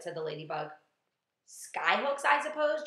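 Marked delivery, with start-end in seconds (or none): 1.5-2.8 high, loud, mocking jeer; loud, sarcastic taunt. A narrator's reading. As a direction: scoff in a raised sing-song. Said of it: "jeered the centipede".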